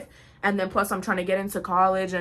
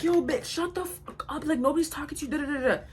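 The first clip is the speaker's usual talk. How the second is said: imitated hostile stranger; 5 semitones higher, 3 dB quieter than usual.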